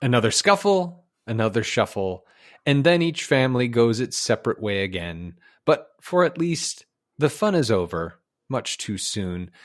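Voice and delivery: measured documentary storyteller; nature film narration. Acted. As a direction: narrate it like an old wildlife film. Recites the film's narration.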